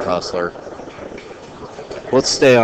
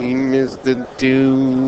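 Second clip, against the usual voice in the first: robot voice; 3 semitones higher, slower than usual. Acted. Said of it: "They've been trying to get me to do the robot voice for years".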